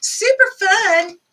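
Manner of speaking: put-on high, drawn-out valley girl. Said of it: "Sound like a valley girl".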